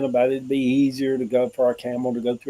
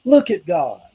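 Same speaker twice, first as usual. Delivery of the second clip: Southern saying; 5 dB louder than usual. Retold or imitated. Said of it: "Southern people just like".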